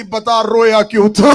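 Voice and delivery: sister's question. Acted. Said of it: "عالیہ حسین کا ماتھا چوم کے کہتی".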